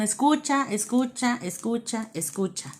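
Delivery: repeated plea trailing to a hush; fading repetition. Acted. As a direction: let the word fade out step by step. Urging listeners to listen.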